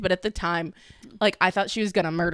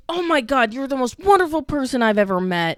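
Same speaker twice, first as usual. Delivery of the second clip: put-on drunk girl gushing; 7 semitones higher, 5 dB louder than usual. A drunk girl in the bathroom gushing at a stranger, high and sappy. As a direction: play the sloppy bathroom friend who adores everyone. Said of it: "She's like".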